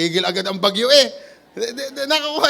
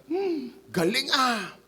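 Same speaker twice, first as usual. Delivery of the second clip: impressed murmur; 3 semitones higher, 7 dB quieter, slower than usual. Retold or imitated. Disciples marvel, mock tone.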